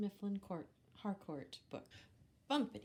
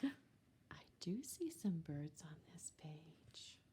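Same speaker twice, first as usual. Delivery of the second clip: whispered aside; 3 semitones lower, 5 dB quieter than usual. Real, not acted. Aside after a gasp.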